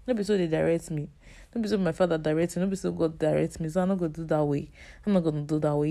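casual Nigerian Pidgin lilt. Real, not acted. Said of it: "I'm speaking pidgin".

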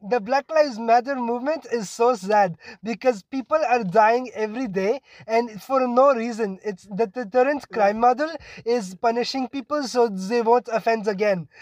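perky attempt at a German accent; badly faked, cheerful German-accented English. Imitating a classmate answering the teacher in a bad German accent. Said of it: "that was my German accent".

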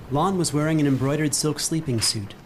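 ordinary talk, nothing marked

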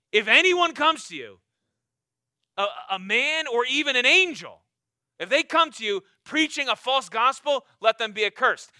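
loud, forceful preaching of Paul's warning; fiery Paul quote. Acted. Preacher voicing Paul to the congregation, loud and forceful. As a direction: thunder it out as Paul would. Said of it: "Paul's like".

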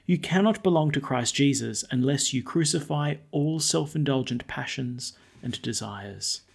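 measured formal reading aloud; scripture reading. Acted. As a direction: read it as scripture at Mass. Liturgical reading of epistle.

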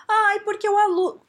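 high, loud put-on whine; exaggerated whiny wail; mock complaint. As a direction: start a hammed-up tale of woe. Acted complaint about a student.

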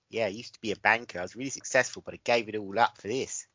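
earnest mock-Aussie contestant; Australian accent. Imitating a banker on MasterChef, Australian accent. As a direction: play an Australian career-changer. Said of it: "You're pretty good at Australian accent".

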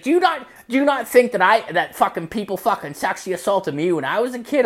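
high-pitched, rushed retort; indignant mock mom. Mom challenging her worried son, indignant. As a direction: imitate an affronted mother in a high voice.

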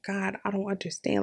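soft, hushed, confused prayer; praying to myself. Retold or imitated. Praying alone in the bathroom, hushed and confused. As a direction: murmur it to God under your breath. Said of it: "like, to myself".

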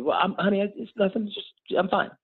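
high-pitched retold mother's brush-off; reassuring mom, imitated. Crying mom brushing off child's worry.

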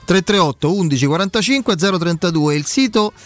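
radio ad read, upbeat and clear; infomercial. Acted. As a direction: sell it like a live radio spot. Host reads sponsor ads live.

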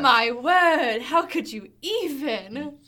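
a mock-shocked Southern belle in an overdone Southern accent; goofy fake Southern accent, exaggerated; bad southern accent. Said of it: "your bad southern accent that you like doing".

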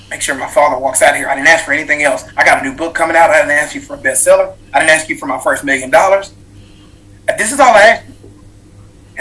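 retold angry pleading that peaks on the last line; pissed-off plea. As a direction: protest to God, mounting to an exasperated outburst. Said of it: "I'm pissed off".

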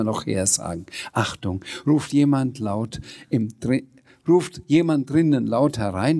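animated read-aloud, quotes lightly acted; story narration. A narrator's reading. Sams asking Frau Rotkohl for a spoon, lively storytelling. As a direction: tell it to children with lively dialogue. Reads a children's book aloud.

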